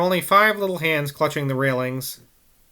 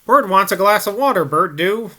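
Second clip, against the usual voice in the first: put-on higher, louder little girl's request; child's plea; 6 semitones higher, 6 dB louder than usual. A narrator's reading. Girl asking old man for water, childish plea. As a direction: ask like a small girl for her brother. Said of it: "added Sis in a less combative voice".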